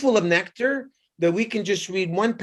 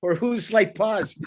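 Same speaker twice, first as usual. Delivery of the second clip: laughing; 4 semitones higher, 4 dB louder than usual. Real, not acted. Joking about a slight pause.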